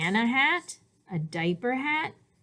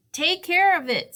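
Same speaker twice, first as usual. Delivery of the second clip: much higher, louder caring warning; dad's caution; 11 semitones higher, 6 dB louder than usual. A narrator's reading. Dad calls after Douglas, high caring warning. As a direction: call after him to be careful.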